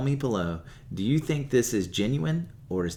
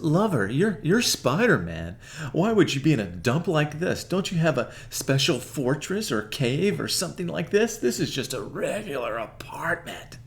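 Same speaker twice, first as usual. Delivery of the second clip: sultry Black Cat; 6 semitones higher than usual. Retold or imitated. To Peter, scoffing at the apartment, in a higher put-on voice. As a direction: tease him as the giddy Black Cat. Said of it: "And she says".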